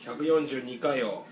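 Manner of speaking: stuffy, blocked-nose sound; talking through a blocked nose; nasal voice. Real, not acted. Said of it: "めっちゃ鼻声じゃないですか".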